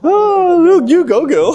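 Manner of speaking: high, loud mock sassy girl. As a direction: camp it up as a sassy girlfriend.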